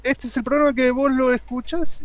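big booming announcer voice; booming fighting game announcer. Acted. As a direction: bellow it like an arcade fight intro. Opens show, Fight Round One.

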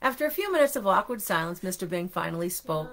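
expressive read-aloud narration; storybook reading. A narrator's reading. Parent reading to children about two disappointed friends, expressive storybook reading. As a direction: tell it to little listeners with swooping emphasis.

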